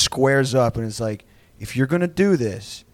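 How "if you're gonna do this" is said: matter-of-fact threat. Retold or imitated. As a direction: square up without raising your voice. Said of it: "operationally matter of fact".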